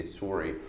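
sorry said as "sore-ee"; Canadian "sorry". Shown as a demonstration. Actor commenting on Canadian speech, Canadian "sorry" with an "or" vowel. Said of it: "how Canadians say sorry".

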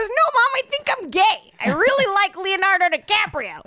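imitating Pete Davidson telling his mom he's gay; Pete Davidson impression. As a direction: play Pete as a whiny eleven-year-old pleading with mom. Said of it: "Let's hear your Pete Davidson".

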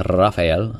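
"Rafael" with the opening R trilled; relished rolled R. Shown as a demonstration. Host enjoys saying friend's name, rolled R. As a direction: roll the R playfully on "Rafael". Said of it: "I just like saying it like that".

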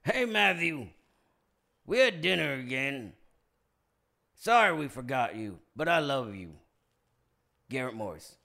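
lightly voiced Garrett Morris; Garrett Morris impression. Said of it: "my brain interpreting Garrett Morris's text".

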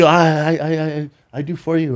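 broken English. Retold or imitated. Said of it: "Her English is terrible".

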